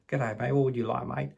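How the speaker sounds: put-on Aussie barista; Australian accent. Barista greets a coffee shop customer, mock Australian accent. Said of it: "Sorry for the accent".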